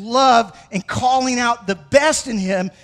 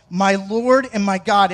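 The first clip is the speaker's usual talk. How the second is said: louder, firm and proclaiming; bold declaration; 4 dB louder than usual. Shown as a demonstration. Preacher proclaiming Thomas's confession, bold and loud. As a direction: declare it with conviction. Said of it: "a completely surrendered disciple".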